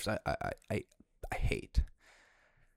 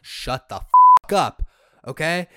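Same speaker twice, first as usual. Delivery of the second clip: explosive yell, loud and slow; furious shout; 6 semitones higher, 16 dB louder, slower than usual. Real, not acted. Fed-up fan yelling at the coverage of a pop singer, furious shout. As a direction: blow up at the TV.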